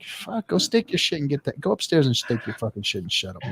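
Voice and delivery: mock dad. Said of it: "He's like".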